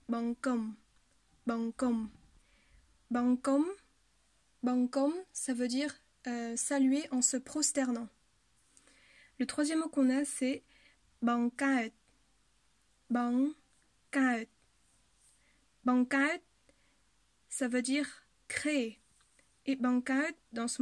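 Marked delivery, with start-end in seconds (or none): 0.1-5.1 BANGKOM said as two clear syllables; careful model pronunciation. Shown as a demonstration. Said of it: "ce mot se prononcera". 11.2-16.4 BANGKAET in two full, separate syllables; careful model pronunciation. Shown as a demonstration. Teacher models the word, repeated.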